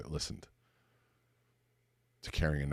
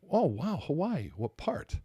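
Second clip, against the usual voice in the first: high, bright-eyed curiosity, much higher pitch; eager interest; 5 semitones higher, 4 dB louder than usual. Retold or imitated. Listener showing delight at a stranger's Hawaii mention, eager and high. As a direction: play the keen listener, all wide-eyed wonder.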